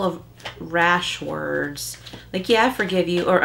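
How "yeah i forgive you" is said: sarcastic brush-off forgiveness; a light sarcastic voice saying yeah, I forgive you. Shown as a demonstration. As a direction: toss it off with mock sincerity. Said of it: "Well, that's sarcasm".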